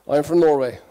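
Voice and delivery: sing-song Norwegian English; Norwegian accent. Retold or imitated. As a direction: lilt it like a Norwegian. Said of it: "I answered in a Norwegian accent".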